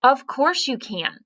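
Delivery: lifted high and eager; a mild acted exclaim. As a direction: exclaim it brightly, pitch up. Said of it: "She exclaimed".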